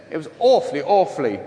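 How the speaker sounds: clipped-vowel Prince Charles posh, lightly put on; mock posh accent. Seminarian parodied by priest as royal-sounding, mock posh accent. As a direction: imitate a precise upper-class English accent. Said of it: "this most precise accent you've ever heard".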